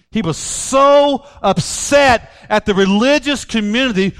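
rising impassioned preaching; fervent sermon about stolen innocence. Acted. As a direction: build the fire, pulpit voice. Impassioned sermon on Paul's anger.

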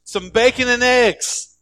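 a hammed-up chicken pitching an idea; excited chicken. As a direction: pitch up, proud of the plan. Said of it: "The chicken goes".

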